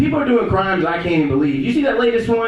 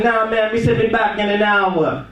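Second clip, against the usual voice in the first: put-on Jamaican accent; 3 semitones higher than usual. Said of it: "He got a hard Jamaican accent".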